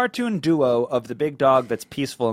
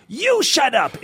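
mock retort; 9 semitones higher, slower than usual. Retaliation in bagel shop.

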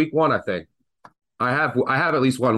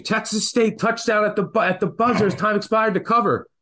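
higher mock yell of Texas State; half-acted excited yell, pitched up high; retold scream; 9 semitones higher than usual.

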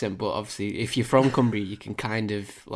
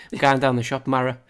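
"Mara" said in a Cumbrian accent, a touch louder; 2 semitones higher, 5 dB louder than usual. Shown as a demonstration. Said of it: "what context can I use".

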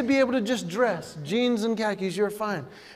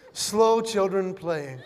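slow children playing said slowly with a laugh; slow deadpan read; 3 semitones lower, much slower than usual. Shown as a demonstration. Comic reading the sign slowly with a laugh. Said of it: "my favorite sign of all time".

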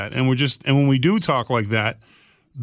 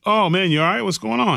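higher-pitched imitated check-in; retold concern; 7 semitones higher than usual. Retelling his reply to a grieving friend, higher-pitched concern. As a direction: ask after a friend, pitch lifted.

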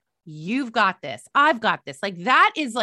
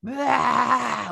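annoying cry. Shown as a demonstration. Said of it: "Let me do that again".

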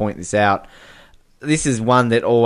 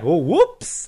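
mock oops; 5 semitones higher than usual. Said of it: "puts his hand up in the air like".

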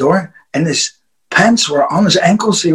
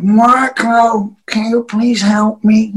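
imitated drunk plea; 4 semitones higher, slower than usual. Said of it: "because he was like drinking".

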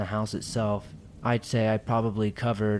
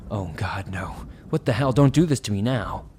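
panicked. Retold or imitated. Truck won't start, panic.

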